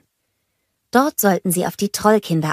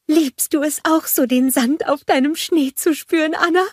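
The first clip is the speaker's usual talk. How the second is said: cheerful snowman Olaf; 10 semitones higher than usual. A narrator's reading. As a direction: bounce up to the kids full of joy. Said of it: "jauchzte er".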